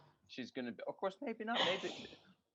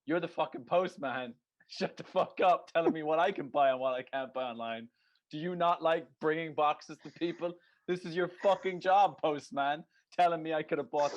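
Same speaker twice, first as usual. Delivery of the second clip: mock rant; 2 semitones higher, 4 dB louder than usual. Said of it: "I was like".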